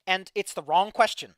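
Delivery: loud, exasperated rant; pissed off. Real, not acted. Streamer complaining about a friend who ignores updates, pissed off. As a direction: hammer out the grievance, real irritation. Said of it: "I get so pissed about that".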